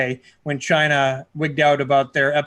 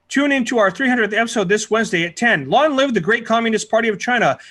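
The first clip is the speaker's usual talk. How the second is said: raised, solemn state-propaganda read; north korean newsreader; 5 semitones higher than usual. Acted. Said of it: "It's something they, they said on the show".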